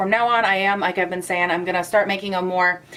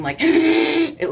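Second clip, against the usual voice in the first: out of breath; 6 semitones higher than usual. Real, not acted. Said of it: "I'm, like, out of breath".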